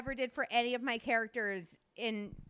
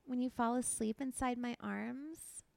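put-on baby doll stripper voice. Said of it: "you always say you have a baby doll stripper voice".

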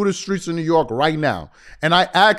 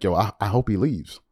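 low, soft mock aside; fan in the corner; 10 semitones lower, 7 dB quieter than usual. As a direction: imitate a fan confiding it on the sly. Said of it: "Laker fans in the corner".

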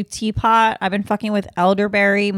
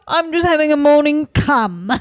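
higher put-on lady voice; first take of the lady voice; 6 semitones higher, 5 dB louder than usual. First take, before the Russian accent request. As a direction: say it in the lady's voice. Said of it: "she's like".

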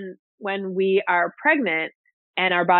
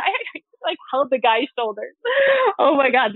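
laughing; 7 semitones higher than usual. Real, not acted. Laughing at her own nerve.

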